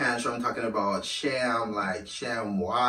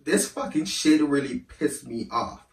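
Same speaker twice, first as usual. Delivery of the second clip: real emotion rising; 2 semitones higher than usual. Real, not acted. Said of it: "I'm getting emotional too".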